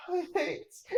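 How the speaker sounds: put-on a child whimpering under the rubble; whimpering in pain.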